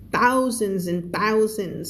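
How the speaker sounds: "Thousands and thousands" slow, each one weighted; expressive emphasis. Shown as a demonstration. Teacher showing learners lively reading, "thousands" slow and emphasised. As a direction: draw out each "thousands" for effect. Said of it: "เพิ่มอรรถรสในการอ่าน".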